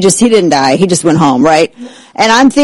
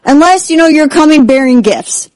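much higher, hammed-up excitement; mock thrilled; 6 semitones higher, slower than usual. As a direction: play the giddy believer. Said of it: "I'm like".

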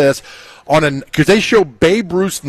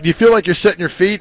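reporter's question; 3 semitones higher, faster than usual. Retold or imitated. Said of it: "media question mimicked".

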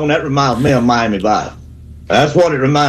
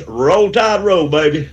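drawn-out cheer; 2 semitones higher, slower than usual. Real, not acted. Caller's sign-off cheer.

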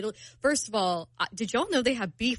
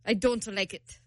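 imitating an Italian date's accent; badly faked Italian accent. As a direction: quote him in a clumsy Italian accent. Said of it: "that was a really bad accent".

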